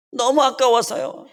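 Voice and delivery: put-on the child breaking down, voice climbing on 너무; sobbing child. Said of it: "그러면서 우는 거예요".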